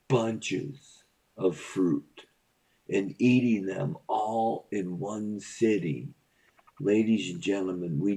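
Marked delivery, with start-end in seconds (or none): 0.1-2.3 drawn out slowly. Pretend. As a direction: stretch each word out. Slow emphasis.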